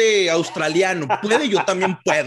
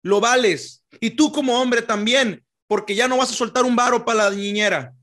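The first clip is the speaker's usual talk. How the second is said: campaign speech voice; 2 semitones higher than usual. Pretend. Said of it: "le dan ese tonito acá".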